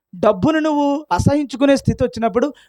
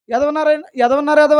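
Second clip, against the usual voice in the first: mock angry retort; 3 semitones higher, faster than usual. Shown as a demonstration. Preacher showing a believer firing back in a mild mock yell. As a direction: hurl the insult back. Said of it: "అన్నాడు అనుకోండి".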